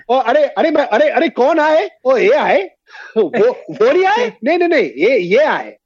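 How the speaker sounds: put-on playful Hindi wordplay in an Indian accent; mock Hindi chatter. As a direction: act out a confused Indian listener. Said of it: "if I was singing it to an Indian".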